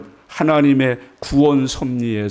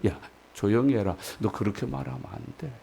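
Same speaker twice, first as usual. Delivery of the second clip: low, hushed telling-off; gentle admonishing; 4 semitones lower, 12 dB quieter, faster than usual. Retold or imitated. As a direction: imitate quietly talking someone down, voice dropping away. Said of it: "그렇게라도 타이르실 텐데". (낮고 조용하게 타이르는 말투)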